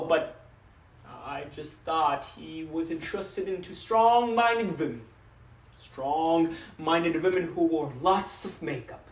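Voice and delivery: lightly voiced papa defending himself; a father rueful and joking, growing insistent in denial; father's dramatic monologue; regretful father.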